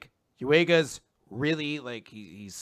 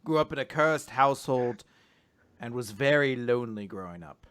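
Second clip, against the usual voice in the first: spooky storyteller; 2 semitones lower than usual. Acted. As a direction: tell it like a campfire spook tale. Performs Spookmaster General bit.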